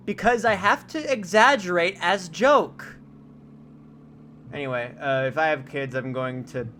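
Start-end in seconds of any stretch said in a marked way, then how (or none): 0.1-3.0 slow, louder, higher southern drawl; exaggerated southern accent. Streamer answering chat about Georgia, exaggerated southern accent. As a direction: ham up the southern accent for the joke. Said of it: "why does your southern voice sound like that".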